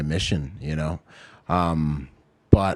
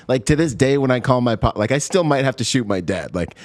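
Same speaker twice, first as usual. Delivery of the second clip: laughing; 10 semitones higher, 4 dB louder than usual. Real, not acted. Laughing about still fearing his dad.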